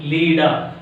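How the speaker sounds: leader ending in an open "da"; silent R. Shown as a demonstration. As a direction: say "Leader" with no final R. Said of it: "R silent".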